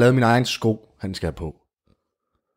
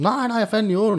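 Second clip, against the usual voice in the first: pleading; 12 semitones higher than usual. Acted. Queen pleads innocence.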